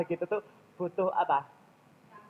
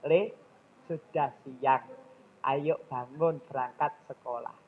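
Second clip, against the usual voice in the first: ibu memanggil anak dengan pelan dan lembut; ajakan lembut; 4 semitones lower, slower than usual. Retold or imitated. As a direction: bangunkan anak dengan sabar. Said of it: "itu cara kita". (cara ibu yang baik membangunkan anak, lembut)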